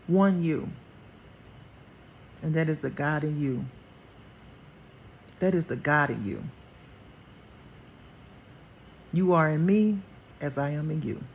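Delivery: low, measured voice with long pauses; God's voice, tender. Acted. God tells his child how strong they are, solemn and tender. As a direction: speak solemnly, as God affirming a beloved child. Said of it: "I even hear him saying".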